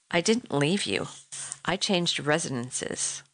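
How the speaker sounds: lightly voiced cold detachment, slow at the end; calm, cold. Husband coolly dismissing his wife on the phone, calm and cold. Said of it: "His voice was calm, cold".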